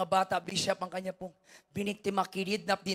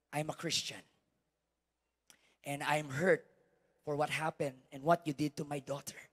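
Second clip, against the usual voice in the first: quiet hurt father; 5 semitones lower, 6 dB quieter than usual. Retold or imitated. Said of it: "Sabi niya".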